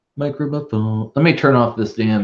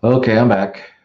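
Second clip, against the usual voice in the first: echoey; 3 semitones higher, 5 dB louder than usual. Real, not acted. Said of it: "like, echoey now".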